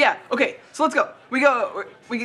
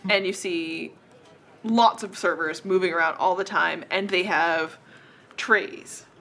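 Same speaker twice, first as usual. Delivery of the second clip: slow, slightly lowered scene-setting; game master narration; 4 semitones lower than usual. A narrator's reading. Game master describes the tavern to players, measured narration. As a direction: paint the room unhurriedly, with pauses.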